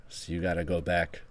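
put-on a light Boston accent, low and quiet. Casino owner demoting Cassie to Chip Girl in a light Boston accent. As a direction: let a hint of Boston creep into the casino boss. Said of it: "I'm talking like I'm from Boston now".

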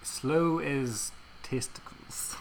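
very slow, pointed correction; slow deadpan correction; deliberate slow fix. Real, not acted. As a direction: say it slowly and pointedly. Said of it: "Can you not say slow as balls?".

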